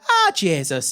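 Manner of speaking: grumbling Irish dad, imitated; comic Irish father; Irish dad impression. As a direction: concede it in dad's Irish accent. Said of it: "I'm gonna do an impression of my dad".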